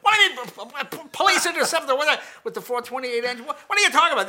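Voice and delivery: loud, high, stammering disbelief; spluttering angry dad. Retold or imitated. Dad to salesman over the engine package, spluttering shouts. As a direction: stammer and yell as the baffled father.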